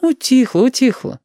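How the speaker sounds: high, smiling mother's voice; smiling mum, high and reassuring; smiling reassurance. A narrator's reading. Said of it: "повторила она с улыбкой".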